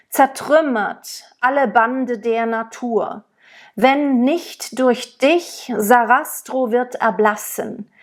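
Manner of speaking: the German text read out plainly and clearly; spoken recitation. Shown as a demonstration. Teacher reads the aria text aloud. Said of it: "if I were to speak it".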